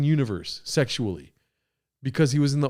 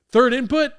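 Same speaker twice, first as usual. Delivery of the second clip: high, loud, incredulous yelp; shocked squeak; 12 semitones higher, 8 dB louder than usual. Real, not acted. Reading the question aloud, high loud disbelieving squeal.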